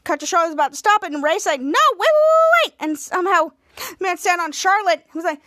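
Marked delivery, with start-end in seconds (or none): 1.6-2.7 rising, louder and higher with each wait; frantic pleading. Retold or imitated. Ray pleading with Charlotte not to go, frantic climbing shout. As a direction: beg them to stop, climbing to a squeal.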